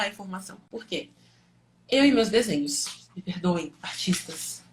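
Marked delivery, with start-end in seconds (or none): 3.1-4.6 breathy whispered apology; whispered aside. Real, not acted.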